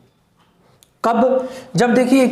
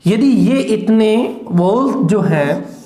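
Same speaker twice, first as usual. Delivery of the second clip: whispered; slower than usual. Acted. Teacher explaining vowels.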